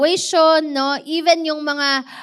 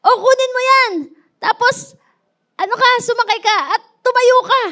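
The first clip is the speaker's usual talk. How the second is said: much higher, louder urging shout; calling out; 9 semitones higher, 5 dB louder, faster than usual. Retold or imitated. Rescuer yelling at the drowning man to grab and stand, fast. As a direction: shout instructions across the water, fast.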